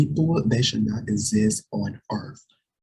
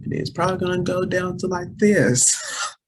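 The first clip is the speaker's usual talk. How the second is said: voice squeaking high; 8 semitones higher than usual. Shown as a demonstration. A vlogger demoing her voice cracking high. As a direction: voice jumps up high with a laugh. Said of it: "I hate when I talk like that".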